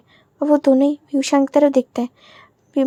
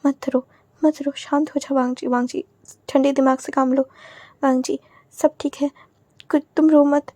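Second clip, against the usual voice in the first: soothing. Acted. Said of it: "सहला के बोल रहा था".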